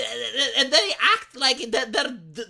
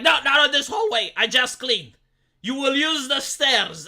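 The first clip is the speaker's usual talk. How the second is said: a hint of a stern cleaning lady, louder; slightly hammed-up bossy janitor scolding; 6 dB louder than usual. Cleaning lady shooing him off the hallway, in a mock bossy voice. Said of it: "she will be like".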